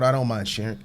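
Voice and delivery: talking through hiccups; words broken by hiccups. Real, not acted. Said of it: "Can you guys tell I have the hiccups this morning?".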